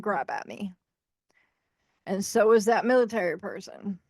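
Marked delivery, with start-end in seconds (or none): 0.0-0.7 whispered, no voice. Real, not acted. Admitting terror of being grabbed, whispered. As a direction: breathe the fear out in a whisper.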